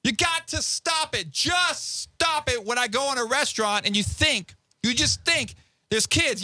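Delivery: deliberate, annoyed lecture; slow heated rant. Real, not acted. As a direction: spell out the complaint slowly. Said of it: "So angry".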